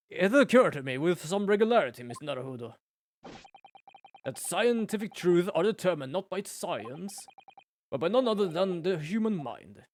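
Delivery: a hint of grand, self-assured sleuth; eccentric detective. Detective lecturing the young lawyer, lightly theatrical. Streamer voices Sholmes.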